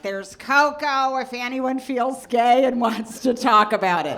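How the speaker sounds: mom's sing-song offer. Retold or imitated. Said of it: "mom voiced, Like".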